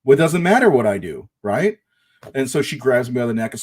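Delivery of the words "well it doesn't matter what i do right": much higher, louder mock outrage; indignant protest. Boyfriend protesting to his jealous girlfriend, incredulous and loud. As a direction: throw it back at her, incredulous. Narrator fires back during fight.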